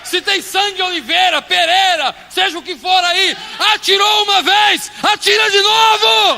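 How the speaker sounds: loud, high shouted sermon, slowed; full-force preaching. Acted. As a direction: hammer each phrase at the congregation. (pregação gritada com toda força)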